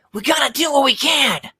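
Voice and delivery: very high, squeaky, cartoonish voice. Asked to attempt a Silver impression, the speaker gives one: Silver impression. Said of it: "That's my Silver impression".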